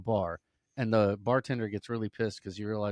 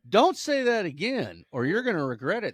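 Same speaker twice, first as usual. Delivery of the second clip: angry warning; 10 semitones higher, 9 dB louder than usual. Acted. Owner warning his cursing parrot, loud angry threat.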